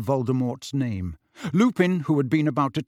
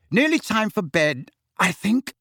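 high-pitched, lightly yawned hint; 8 semitones higher, 3 dB louder than usual. A narrator's reading. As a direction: speak through a slight yawn. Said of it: "said Missus Weasley on a yawn".

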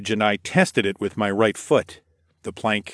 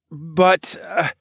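higher, faltering protest; baffled stammer; 9 semitones higher than usual. A narrator's reading. Narrator hero confused by the accusations, stammering. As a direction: start to object, then falter. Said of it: "I stammered as I tried to make sense".

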